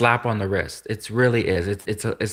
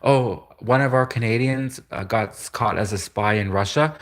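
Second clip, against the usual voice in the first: mock Canadian official; 3 semitones higher than usual.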